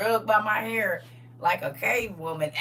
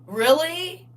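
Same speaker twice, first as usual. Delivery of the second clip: high disbelieving really; 6 semitones higher than usual. Acted. Repeats really in different voices.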